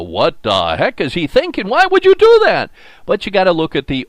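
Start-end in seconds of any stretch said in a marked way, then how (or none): 0.0-2.7 rising to a much higher, louder exasperated cry; baffled disbelief. Retold or imitated. Host questioning the manager's bonehead move, exasperated disbelief. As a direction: throw up your hands at a bonehead move. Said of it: "scratch my head and go".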